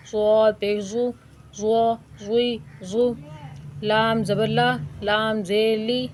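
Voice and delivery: put-on clear, measured syllable drill for children; teaching drill. Shown as a demonstration. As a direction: sound out each syllable for the class. (بچوں کو ہجے سکھانے کا انداز)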